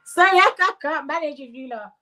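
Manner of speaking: high, breaking off from laughing; overcome with laughter. Real, not acted. Host gives up on the chat, helpless laughing voice. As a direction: apologise through a high laugh, losing steam.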